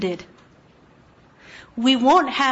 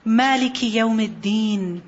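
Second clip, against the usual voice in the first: quick, fluent Arabic recitation; Quran recitation; 3 semitones lower, much faster than usual. Acted. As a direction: recite the verse in one flowing breath.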